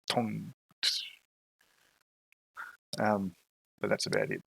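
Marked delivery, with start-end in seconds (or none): 0.1-0.5 imitated arrow release. Game master voicing a distant arrow, imitated twang. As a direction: mimic a bowstring twang. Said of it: "the sound of an arrow being loose".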